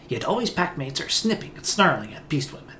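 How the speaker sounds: lightly growled broken speech of a beastwoman; wary beastwoman talking in broken words. Acted. Beastwoman companion again.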